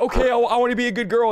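lightly voiced good little girl; obedient daughter. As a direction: imitate a daughter eager to obey. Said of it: "And she's like".

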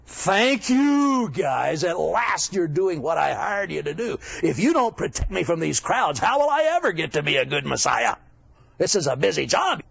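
lightly acted overworked boss, emphatic; harried boss. Preacher as Jesus thanking his apostles, mildly hammed-up and harried. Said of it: "I would have said".

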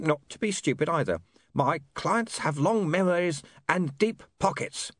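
lightly voiced warning from a recording; recorded negotiator. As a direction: deliver a measured, veiled warning. Recorded client's agent replayed.

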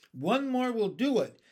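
high, loud call; shouted encouragement. A narrator's reading. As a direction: shout that success is near. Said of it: "shouted the old green grasshopper".

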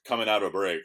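ordinary talk

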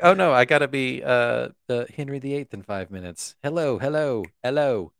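hammy posh British hello; mock British accent. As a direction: put on a hammed-up British accent. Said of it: "It's like".

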